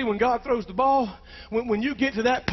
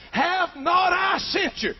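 booming slow call; 5 semitones higher, much slower than usual. Acted. Preacher voicing God's call.

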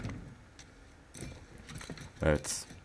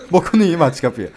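high, loud shouting at the door; panicked yell; 9 semitones higher, 10 dB louder than usual. Real, not acted. Player trapped by a locked door, yelling in panic. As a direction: bang on it with your voice.

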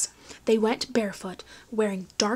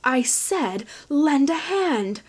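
loud, higher shouted command; pirate holler; 5 semitones higher, 5 dB louder, slower than usual. A narrator's reading. Pirate captain ordering Finn, loud holler. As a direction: bark the order across the yard. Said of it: "hollered the elaborately dressed man".

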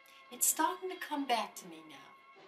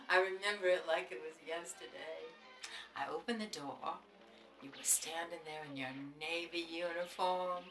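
tender; 2 semitones lower, 4 dB quieter than usual. Acted. Grandma reminiscing tenderly.

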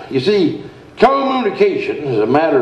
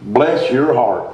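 slow drawn-out; 3 semitones lower, slower than usual. Shown as a demonstration. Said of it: "a common phrase".

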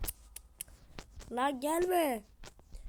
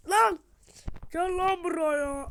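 high, loud challenging yell; real shout; 6 semitones higher, 9 dB louder, slower than usual. Real, not acted. Gamer with an enemy beside him yells a challenge. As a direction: bellow at the enemy to come out.

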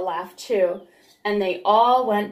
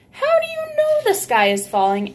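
very high, louder quacky question; doubting Ducky Lucky; 5 dB louder than usual. Acted. Ducky Lucky questions the news, very high squeak.

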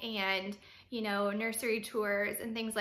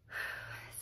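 deep breath in; 11 dB quieter than usual. Real, not acted. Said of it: "I need to breathe".

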